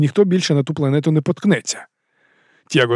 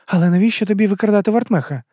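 higher female voice, firm questioning; a woman pressing for the truth, pitched up; Арада, вищий жіночий голос; 7 semitones higher than usual. A narrator's reading. Arada questioning. (вищий жіночий голос, наполегливе запитання)

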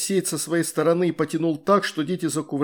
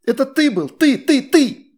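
angry accusation; 10 semitones higher, 8 dB louder than usual. A narrator's reading. Astrid accusing boy.

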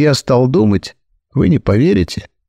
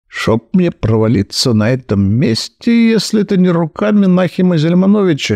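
with feeling; 6 semitones higher than usual. Acted. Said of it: "с чувством произнёс я".

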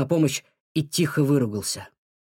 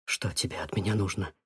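strained; 5 semitones lower, 7 dB quieter than usual. A narrator's reading. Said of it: "с трудом вымолвил он".

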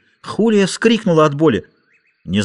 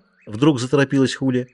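ordinary delivery

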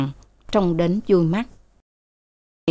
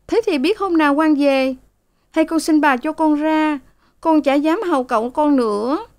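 bursting into tears; 9 semitones higher than usual. A narrator's reading. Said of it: "Sen òa lên".

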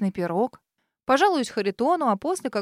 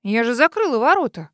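louder, outraged cry; shocked someone got past her locked gate; indignant exclamation; 7 dB louder than usual. Acted. Girl outraged at the intruder, indignant cry. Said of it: "Возмущённо воскликнула".

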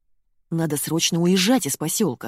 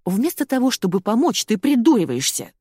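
louder, higher angry scolding; scolding husband; 6 semitones higher, 4 dB louder than usual. A narrator's reading. Ольга scolds her joking husband angrily, louder. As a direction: tear into your husband. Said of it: "налетела на мужа Ольга".

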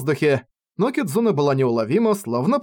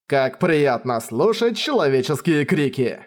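slow, relishing evil gloat; slow theatrical villain menace; slower than usual. Acted. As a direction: savour every word like a villain. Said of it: "Заканчивай говорить как злодей". (медленная злодейская угроза)

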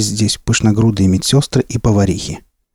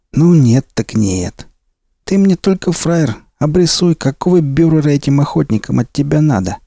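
high, mocking thug; bandit boss voice; 4 semitones higher than usual. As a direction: talk down like a crime boss.

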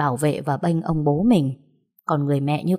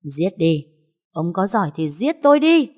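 taunting shout; 3 semitones higher, 5 dB louder than usual. Acted. Wife waving a knife at her husband, shouting a dare. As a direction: push him to do it.

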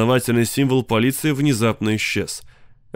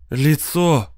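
sobbed; 4 semitones higher than usual. Acted. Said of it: "всхлипнула Кластер".

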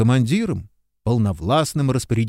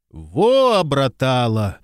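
pleased exclaim; much slower than usual. A narrator's reading. Sergeant delighted the girl tamed him, pleased. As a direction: crow with delight. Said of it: "с удовольствием отметил старшина".

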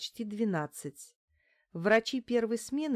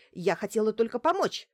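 frightened plea; 3 semitones higher, 5 dB louder than usual. Acted. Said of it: "быстро заговорила Бочкарёва".

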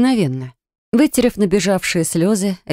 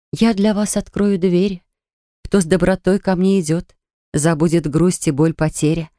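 reciting verse. A narrator's reading. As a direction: recite it like a spell. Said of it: "я заговорила стихами".

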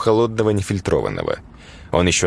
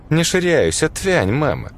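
put-on snapping teen; 7 semitones higher, slower than usual. A narrator's reading. Дочь огрызается матери.

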